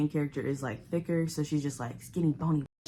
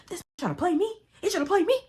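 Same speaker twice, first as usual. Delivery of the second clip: furious high yelling; full rage; 5 dB louder, faster than usual. Retold or imitated. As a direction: scream it in outrage at being played. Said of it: "in a full rage".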